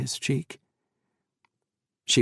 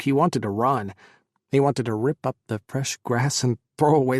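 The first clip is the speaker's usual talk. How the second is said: louder, anguished build of grief; rising anguish; 2 semitones higher, 5 dB louder than usual. Acted. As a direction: let the grief swell into a cry.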